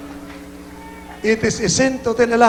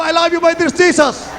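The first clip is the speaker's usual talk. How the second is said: high, raised rallying call; fervent call of love to Jesus; shouted devotion; 6 semitones higher than usual. Real, not acted. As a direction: cue the crowd to cry it out.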